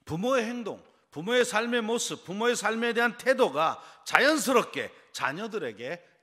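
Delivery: loud, high sermon delivery; emphatic preaching. Real, not acted. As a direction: drive the point home to the congregation. Preaches forcefully to congregation.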